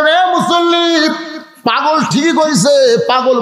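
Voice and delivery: high, slow preacher's lament; mock-weeping chant with drawn-out words; imitated tearful cry. Imam answering the worshippers that the madman is right, imitated tearful cry. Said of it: "সঙ্গে সঙ্গে ইমাম কান্দে বলে".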